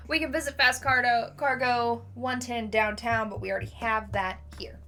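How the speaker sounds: measured, emphatic file reading; case-file read-aloud. Acted. Reading the suspect's record to viewers, emphatic read-aloud.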